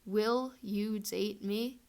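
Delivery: very slow, word by word; spelled out slowly. Shown as a demonstration. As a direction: spell it out like fireworks in the sky. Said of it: "they would spell out".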